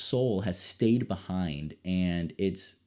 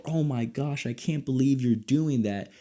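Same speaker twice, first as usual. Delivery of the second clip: mock disbelief; 6 semitones higher than usual. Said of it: "you're just screaming".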